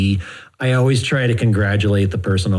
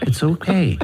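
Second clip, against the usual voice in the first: gentle mock-therapist reassurance; soothing therapist; 5 semitones higher than usual. Counselor reassuring patient on the couch, soothing. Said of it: "the soothing voice of a good therapist".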